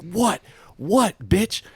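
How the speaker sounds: mock challenge. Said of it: "He's like".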